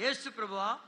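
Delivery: said out loudly for all to hear; prayer line repeated loudly for the crowd. Shown as a demonstration. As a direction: call out the name boldly. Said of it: "బిగ్గరగా చెప్పాలి".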